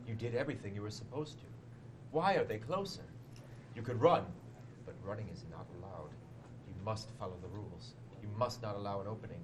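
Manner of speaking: ominous dramatic reading. Shown as a demonstration. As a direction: read it like a creepy storyteller. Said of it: "I will read it in dramatic voice".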